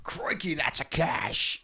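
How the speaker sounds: Crocodile Hunter impression. Repeats the Aussie impression.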